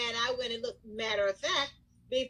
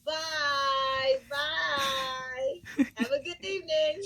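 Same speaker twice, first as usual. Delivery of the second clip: friendly goodbye; much slower than usual. Shown as a demonstration. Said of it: "I have to say".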